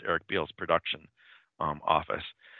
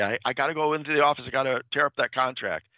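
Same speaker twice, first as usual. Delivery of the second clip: quick, higher, urgent retold call; mock shouting; 4 semitones higher, faster than usual. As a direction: blurt it out fast like he's rushing in. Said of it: "starts shouting to her".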